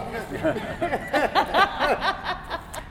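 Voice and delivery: high burst of real laughter. Real, not acted. Pastor laughing at his own story of his son. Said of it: "laugh cry".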